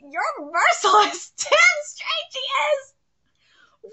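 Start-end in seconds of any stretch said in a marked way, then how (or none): 1.4-3.9 whispered through laughter; laughing whisper. Real, not acted. Cheering the merciless girl, whispering with laughter. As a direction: gloat in a giggling whisper. Gloating over the rejection.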